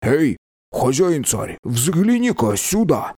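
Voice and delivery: an excited shout toward the wall; exclaiming. A narrator's reading. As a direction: call the king over excitedly. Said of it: "воскликнул Джерн".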